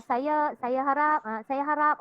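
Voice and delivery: halting repeated words of a nervous student; demo stutter. Shown as a demonstration. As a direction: show a student stumbling over words.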